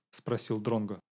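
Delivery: ordinary delivery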